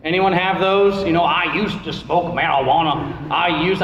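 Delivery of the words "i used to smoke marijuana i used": lightly put-on Cajun testimony voice; Cajun accent. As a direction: confess it with a hint of Cajun accent. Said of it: "I don't know why he's a Cajun".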